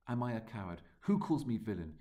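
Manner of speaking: lightly acted challenge to the audience; a hint of Hamlet shouting at the crowd; mild mock shout. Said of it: "You can almost hear him shouting".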